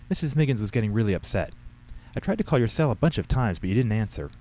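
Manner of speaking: a hint of a girl making excuses to Dad; lightly voiced teenage daughter.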